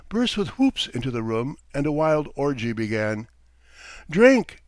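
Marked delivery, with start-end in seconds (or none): 4.1-4.6 loud, high shouted order; commanding yell, pitched up. A narrator's reading. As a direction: bellow it to the whole room. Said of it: "Frolov shouted to them".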